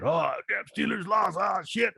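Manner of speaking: mock whine over a loss; younger upset fan. Host mocking his younger self after a Steelers loss, high mock whine. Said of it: "I used to get mad".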